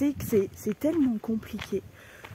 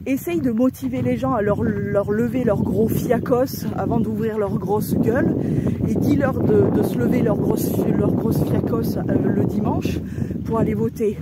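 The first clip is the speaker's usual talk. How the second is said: angry rant; 5 dB louder than usual. Real, not acted. Furious rant about telling people to vote.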